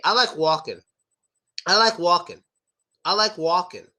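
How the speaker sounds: "walking" with a silent L, tongue kept down; native casual "walking". Shown as a demonstration. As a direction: say "walking" with no L at all. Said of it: "We just say".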